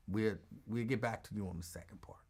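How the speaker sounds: whispered aside, voice gone breathless; sly whisper. Acted. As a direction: hide it from the listeners in a whisper. Aside while acting out the deal.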